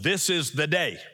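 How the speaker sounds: weight on the opening "this is the day"; emphasize "this is the day" as the key phrase; stress on THIS IS THE DAY. Shown as a demonstration. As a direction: lean on "this is the day". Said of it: "I put the emphasis on".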